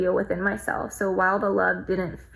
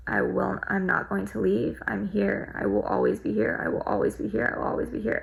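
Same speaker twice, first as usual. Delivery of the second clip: repeated reassurance. Retold or imitated. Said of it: "I just kept repeating".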